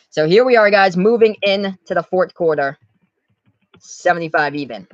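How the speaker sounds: brisk sportscaster calling each possession; live play-by-play. Acted. YouTube host calling the game for viewers, live play-by-play. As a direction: call the action as it happens, like a broadcaster. Play-by-play resumes after aside.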